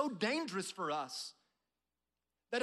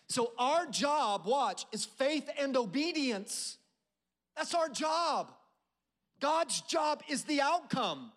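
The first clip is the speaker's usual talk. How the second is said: preaching build; 2 semitones higher, slower than usual. Real, not acted. Preacher to congregation, slow rising build to a shout.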